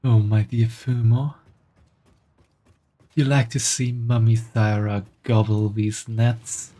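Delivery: lightly voiced doting mummy. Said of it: "Can you even call this a mummy voice".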